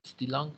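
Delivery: "Still on" run together as one word; "Still on" said smoothly like a single word; linked still on. Shown as a demonstration. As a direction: glide the S of "still" into "on". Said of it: "Suena como otra palabra".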